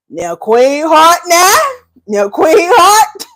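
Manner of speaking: slow, high, laughing drawn-out calling of the name; laughing so hard the words stretch. Real, not acted. Laughing at Queen Heart's coffee comment, slow and high.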